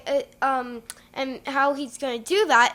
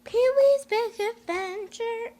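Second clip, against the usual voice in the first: title announcement; 8 semitones higher than usual. Pretend.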